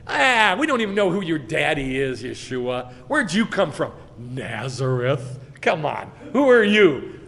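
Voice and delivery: scornful jeering, loud at start and end; acted heckling. Temple crowd challenging Yeshua's origins, acted heckling. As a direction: jeer at him like a hostile crowd.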